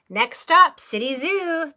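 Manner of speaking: a touch of a bus driver calling out the stop. Acted. Driver announcing the zoo stop, mild call-out. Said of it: "the bus driver would call".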